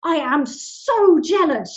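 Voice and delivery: slow, loud, drawn-out jealousy; gushing envy. Retold or imitated. Stranger confessing envy to the mother, slow and loud. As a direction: stretch out how jealous you are. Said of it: "She goes".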